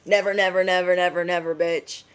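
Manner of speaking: NEVER repeated in a rapid, even run; emphatic refusal. Real, not acted. Reader rejecting those who control you, emphatic refusal. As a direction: hit each "never" hard, then drop on "bitch".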